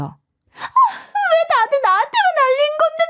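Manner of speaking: high wailing through tears; spoiled girl wailing and crying at everyone; crying tantrum. Acted. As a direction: sob out the complaint. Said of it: "악을 써댔어요".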